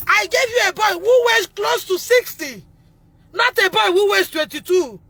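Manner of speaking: tearful protest. Real, not acted. Mother pleading over her sick son.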